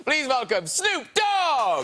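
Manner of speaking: announcing. Real, not acted. Host announcing guest.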